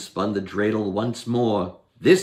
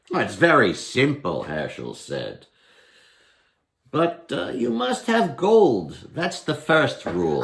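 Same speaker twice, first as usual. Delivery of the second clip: Herschel voice; 3 semitones higher than usual. Acted. Herschel tempts the goblin.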